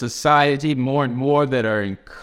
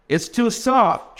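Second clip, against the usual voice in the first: slow, higher, sighing line; 10 semitones higher, slower than usual. Acted. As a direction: angel sighs over the model of the mother. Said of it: "she sighed".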